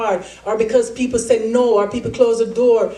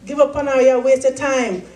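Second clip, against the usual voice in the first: raised, drawn-out mocking dismissal; teasing; 4 semitones higher than usual. People teasing a young athlete about being awkward, mocking. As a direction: imitate the teasers, slow and higher. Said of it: "People were teasing me".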